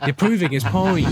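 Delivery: said through laughter, slow and high; amused, laughing remark. Real, not acted. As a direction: laugh the words out slowly. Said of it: "laughing at Danny Dyer".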